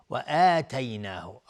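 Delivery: "آتیناه" with long opening aa; lengthened alef. Shown as a demonstration. Teacher introduces the madd, "آتیناه" with long aa. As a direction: hold the first vowel of "آتیناه". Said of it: "آتینا اینجا مد بدل هست".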